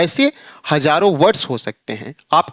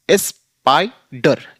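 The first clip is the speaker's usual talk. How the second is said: slow drawn-out demo; much slower than usual. Shown as a demonstration. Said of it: "जैसे".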